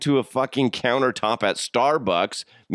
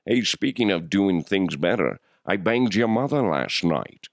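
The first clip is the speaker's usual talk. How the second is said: Sean Connery voice. Pretend. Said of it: "I can do Sean Connery".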